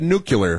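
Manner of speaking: "nuclear" imitated as nucular, with an extra vowel; mispronounced nuclear. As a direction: say "nuclear" wrongly as NOO-kyuh-ler. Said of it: "he always said nuclear".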